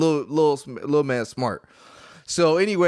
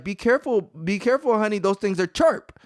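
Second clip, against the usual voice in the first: higher, gentle mock nurse voice; nurse's accent, imitated; 4 semitones higher than usual. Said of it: "the lady repeats herself".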